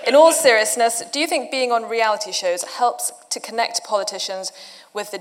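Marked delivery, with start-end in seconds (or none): 0.0-1.0 laughing. Real, not acted. Asking a cheeky question.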